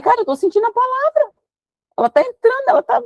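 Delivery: preacher overcome as the word cuts her; tearful preaching. Retold or imitated. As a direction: voice up high, pleading through tears. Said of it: "daqui a pouco eu tava chorando".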